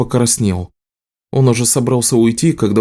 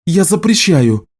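high, raised forbidding shout; 8 semitones higher than usual. A narrator's reading. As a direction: forbid it outright, voice up. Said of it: "крикнула Элиса". (крик запрета)

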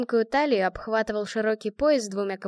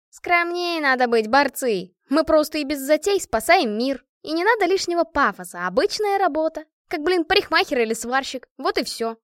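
насмешливо; 6 semitones higher, 5 dB louder than usual. A narrator's reading. Машка ворчит о пафосе.

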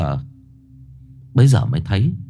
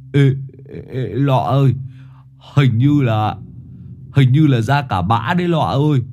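put-on alarmed boy. A narrator's reading. Boy alarmed after soiling himself.

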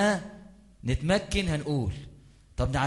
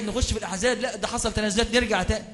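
higher-pitched imitation of squabbling activists; lightly mimicked dispute, pitched up; mock bickering; 6 semitones higher than usual. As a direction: act out two men arguing back and forth. Acts out bickering fellow activists.

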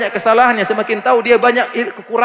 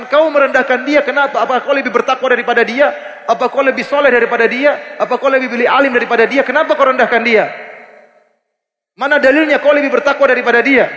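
raised, pressing rhetorical questions; challenging rebuke; 3 semitones higher than usual. Retold or imitated. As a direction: confront the listener who looks down on others. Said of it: "Seakan-akan Nabi mengatakan". (Nabi menegur orang yang merendahkan saudaranya, nada menantang)

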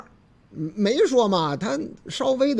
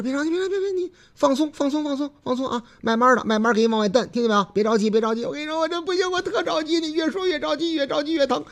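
安慰人的小伙子; 6 semitones higher, faster than usual. Retold or imitated. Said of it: "小伙子说".

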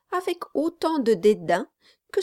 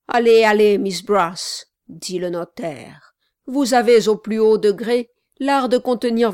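stern notary, firmer and louder; 3 semitones higher, 5 dB louder than usual. Acted. Notary presses Sally firmly.

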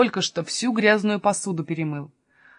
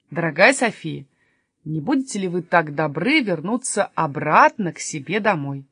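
low-pitched, courteous request; extremely polite; 3 semitones lower than usual. Acted. Kasper begging Sofia to go home, very polite and low. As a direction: ask with elaborate politeness. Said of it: "Каспер сказал вежливо-привежливо".

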